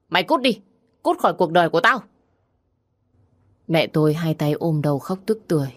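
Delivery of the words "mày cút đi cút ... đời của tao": angry shout. Acted. Father drives daughter-in-law out.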